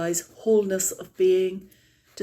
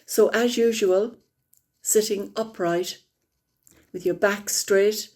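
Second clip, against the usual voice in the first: calm, unhurried meditation guide; guided meditation; 3 semitones higher than usual. Acted. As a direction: ease the group gently into stillness.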